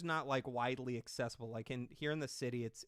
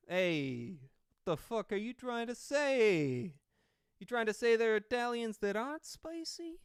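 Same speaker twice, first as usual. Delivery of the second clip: hammed-up Italian-American accent, rising much higher; playful Italian accent, pitched up and drawn out; 9 semitones higher, 6 dB louder than usual. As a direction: put on an indignant mock Italian accent. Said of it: "do an Italian accent".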